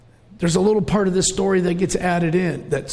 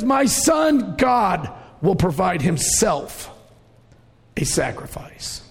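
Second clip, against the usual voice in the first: confident father; slower than usual. Retold or imitated. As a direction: proclaim it in full faith, then let it fall away. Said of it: "a man full of faith".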